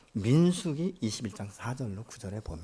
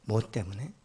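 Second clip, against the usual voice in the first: ordinary talk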